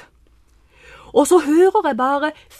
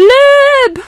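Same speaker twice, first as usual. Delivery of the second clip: loud high yell; shouted run; 12 semitones higher, 9 dB louder than usual. Retold or imitated. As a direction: call them to run at once. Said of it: "roper jeg bare". (høyt, lyst rop)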